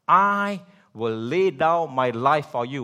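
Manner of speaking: loud, slow grand boast; hammed-up brave promise, loud and slow; mock bravado. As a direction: swell up like a boastful disciple. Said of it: "in an act of utter bravado".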